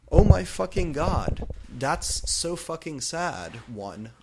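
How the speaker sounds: high, loud shocked outburst; shocked gasp. Acted. Narrator hearing her friend's sad news, shocked. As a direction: gasp it out in dismay. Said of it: "I gasped".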